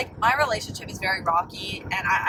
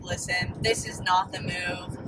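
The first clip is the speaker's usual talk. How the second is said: nice way; 3 semitones lower than usual. Retold or imitated. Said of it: "tell him in a nice way".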